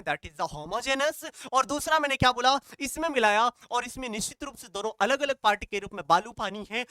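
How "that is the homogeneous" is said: slow answer. Shown as a demonstration. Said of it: "इस solution को क्या बोलते हैं".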